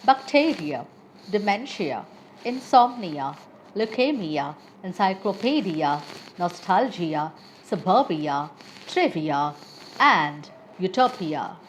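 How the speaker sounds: bacteria, dementia, nostalgia, utopia stressed just before the ending. Shown as a demonstration. Teacher giving learners examples of the rule, pre-ending stress from "bacteria" to "utopia". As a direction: punch the syllable before "ia": bacTEria, inSOMnia, uTOpia. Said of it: "primary stress is placed before the syllable".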